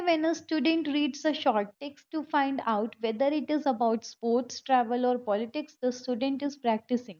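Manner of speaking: very slow, deliberate reading aloud; slow question reading. Acted. Teacher reading an exam question to students, very slowly. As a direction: read the question word by word.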